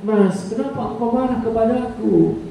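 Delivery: lightly voiced devoted wife; tender wife. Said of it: "Pakai gayanya wanita".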